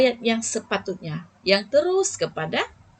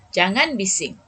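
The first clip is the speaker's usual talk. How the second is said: firm, clipped jangan bising; firm command. Shown as a demonstration. Teacher demonstrating a firm prohibition to pupils. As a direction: say jangan bising firmly as a strict order. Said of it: "itu nada dia lebih tegas".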